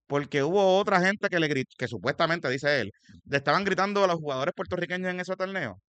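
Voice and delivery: denuncia encendida, en voz más alta y aguda; indignado. Real, not acted. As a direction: suelta una denuncia pública con indignación real. Indignada denuncia del senador electo. (indignado, alzando la voz)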